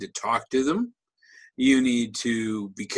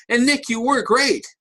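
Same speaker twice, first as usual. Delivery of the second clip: higher-pitched gushing evaluator; gushing mock praise; 4 semitones higher than usual. Shown as a demonstration. Speaker demonstrating a whitewash evaluation to Nick, gushing. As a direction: act out over-the-top admiration. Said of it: "tell them how great they were".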